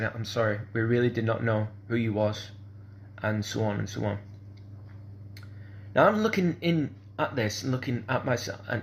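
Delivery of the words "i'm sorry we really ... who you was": ordinary talk, nothing marked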